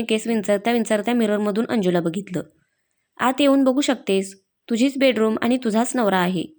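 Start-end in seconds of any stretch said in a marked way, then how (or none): 3.2-6.4 a touch of amused teasing; smiling tease. Acted. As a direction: tease her lightly, smiling. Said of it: "गालामध्ये हसत म्हणाला".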